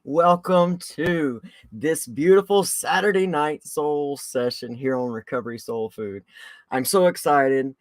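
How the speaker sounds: a little breathless; out of breath. Real, not acted. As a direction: talk while catching breath. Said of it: "I'm already kinda out of breath".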